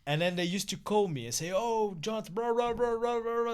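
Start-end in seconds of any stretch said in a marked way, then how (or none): 1.5-3.5 higher-pitched mock gabble of an engineer on the phone; incomprehensible Scottish caller. Retelling Scottish engineers calling the manager, mock incomprehensible gabble. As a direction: imitate a caller rattling on unintelligibly. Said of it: "I don't understand what he's saying".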